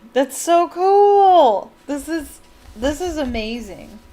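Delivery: slow, laughing, high and loud delight; real giggly thrill at a fun detail. Real, not acted. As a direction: laugh out the words in sheer delight. Reader delighted by story detail.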